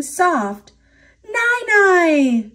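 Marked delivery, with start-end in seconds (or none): 1.2-2.5 high, loud storybook cry; shouted call. A narrator's reading. Little Red finds Nai Nai inside Dragon, shouting. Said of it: "shouted Little Red".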